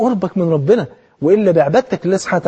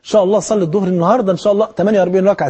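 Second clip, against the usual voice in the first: mock enthusiasm. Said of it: "تخش كده بحماس تقول".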